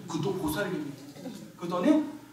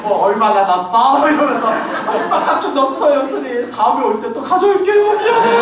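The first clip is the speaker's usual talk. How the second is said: higher, coaxing and giggly; a hint of a sweet-talking grandma; 4 semitones higher than usual. Grandma sweet-talks the monk, high and giggly. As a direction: coax him like a sheepish grandma.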